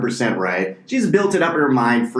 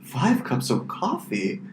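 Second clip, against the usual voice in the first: literal Swede; 6 semitones higher, 6 dB quieter than usual. Retold or imitated. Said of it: "They'd be like".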